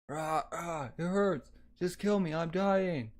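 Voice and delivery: a wounded soldier pleading after the battle; dying soldier. Acted. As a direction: beg for death through the pain.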